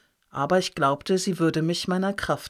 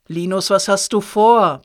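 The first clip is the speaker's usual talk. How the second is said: loud, urgent yell, a little higher; bellowing; 3 semitones higher, 8 dB louder than usual. A narrator's reading. Tom bellowing after fleeing Linus, loud and urgent. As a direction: roar after him, more forceful now. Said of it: "brüllte er jetzt energischer".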